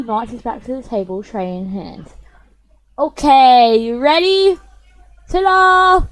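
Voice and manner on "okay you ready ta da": loud, high showing off; proud reveal. Acted. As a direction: present it with a flourish. Natsuki shows off her cupcakes.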